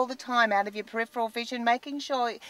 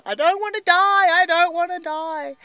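higher, louder mock wail of terror; a hammed-up panicky cry; mock panicked wail; 6 semitones higher, 6 dB louder than usual. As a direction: imitate a terrified mum begging not to die. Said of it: "screaming and crying".

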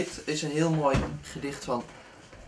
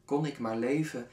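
spaced-out lines with long pauses; unhurried spoken verse, each line falling away; poem recitation; 3 dB quieter than usual. Acted. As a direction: recite your own poem, measured and restrained.

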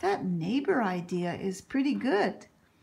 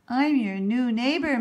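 creaky voice; 5 dB louder than usual. Acted. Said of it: "a creaky voice".

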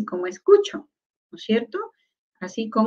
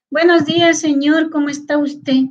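polite, distanced greeting, slightly raised pitch; demonstrated formal hello, pitched up; 5 semitones higher than usual. Shown as a demonstration. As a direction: greet a gentleman formally, keeping your distance. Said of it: "Marcamos esa distancia".

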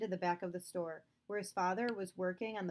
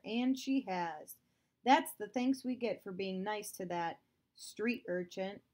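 louder, insistent accusing father; stern father; 4 dB louder than usual. Acted. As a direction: hammer home his certainty. Father insists Poppy stole.

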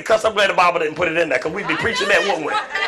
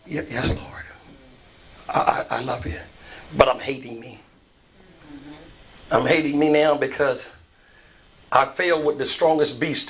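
hushed confession; 3 semitones lower than usual. Acted. Peter confessing to Jesus, acted.

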